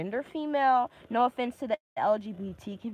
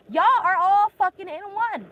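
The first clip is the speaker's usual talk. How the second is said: exasperated outburst; 8 semitones higher, 5 dB louder than usual. Real, not acted. Heated rant, exasperated outburst.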